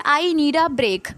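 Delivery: put-on very slow, every word spelled out for kids; slow read-aloud. Shown as a demonstration. Teacher reading the sentence to her students, very slowly. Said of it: "So ये क्या लिखा है?".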